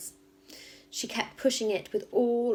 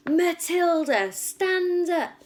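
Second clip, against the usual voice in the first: higher, louder barked command; barked order; 10 semitones higher, 6 dB louder, much slower than usual. Acted. Headmistress barks at Matilda to stand up. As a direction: bark her name, slow and hard. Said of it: "she barked".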